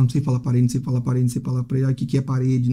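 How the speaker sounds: imitating a stuck student, monotone loop; stuck on repeat. Teacher mimics a student fixated on one word, droning repetition. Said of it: "Você não pode ficar martelando".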